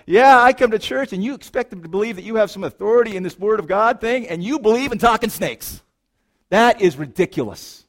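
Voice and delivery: loud, high-pitched scoffing at churchgoers; worked-up outsider calling it absurd; incredulous skeptic. Acted. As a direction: challenge them in mocking disbelief. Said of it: "would go like".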